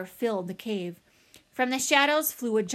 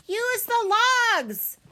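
high, loud roared command; urgent bear's shout, pitched way up; roaring; 13 semitones higher, 6 dB louder, slower than usual. A narrator's reading. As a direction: roar it over the river.

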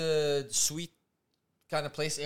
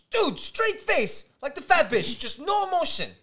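mocking the guard; 12 semitones higher, 6 dB louder than usual. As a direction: describe the deadpan guard mockingly. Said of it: "And he's like".

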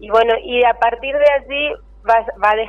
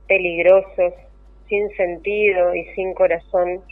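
poem reading. Acted. Poem read aloud on air.

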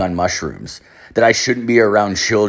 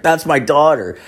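Indian cab driver; 6 semitones higher, 3 dB louder than usual. Retold or imitated. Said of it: "he's, like, this Indian guy".

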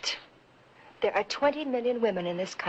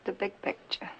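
hushed whisper; 8 dB quieter than usual. Acted. Bitter quiet remark after discovery.

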